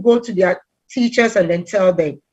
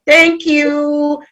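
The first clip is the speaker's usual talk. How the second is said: higher, stretched-out thank you; pleased thanks; 5 semitones higher than usual. Retold or imitated. Answering a coworker who likes the dress, pleased thanks. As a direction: play up delight at a compliment. Retold reply to a compliment.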